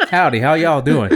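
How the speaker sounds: put-on Southern accent, mocking the guy. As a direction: play a Southern cowboy in a mock Southern accent, half laughing. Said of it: "make an accent".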